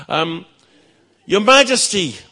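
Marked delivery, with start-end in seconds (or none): 1.3-2.2 high, loud call over the wind; shouted through the wind. Acted. Page calling to the king through the wind, shouted high. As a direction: yell it up ahead into the storm. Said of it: "he shouted through the wind".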